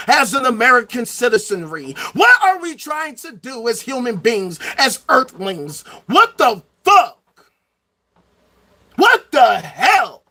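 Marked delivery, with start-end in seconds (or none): 6.1-10.2 slow, loud exasperation; exasperated disbelief. Real, not acted. Ranting about human beings, slow exasperated outbursts. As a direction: drag it out, fed up.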